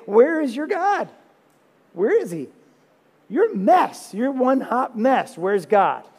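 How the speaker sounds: high, loud sneering taunt; mocking enemies. Preacher mocking as the psalmist's enemies, high sneering taunt. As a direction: sneer it like a bully jeering.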